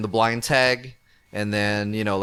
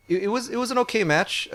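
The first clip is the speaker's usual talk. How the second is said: laughing; 11 semitones higher than usual. Real, not acted. Still laughing after producer's laughter.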